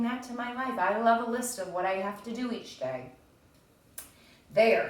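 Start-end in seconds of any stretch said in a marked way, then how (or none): 4.5-4.9 louder, pleased exclamation; a content little Toad; satisfied Toad. Acted. Teacher voicing Toad finishing his list, louder and pleased.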